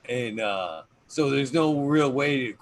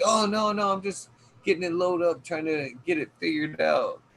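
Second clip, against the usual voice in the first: higher-pitched retold "no problem" voice; imitated quick reassurance; 5 semitones higher than usual. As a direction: put their mind at ease, imitating the guest. Guest reassures host about camera.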